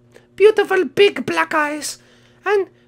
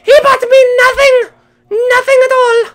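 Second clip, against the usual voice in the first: fake sobbing; 5 semitones higher, 6 dB louder than usual. Complains brother got a gift.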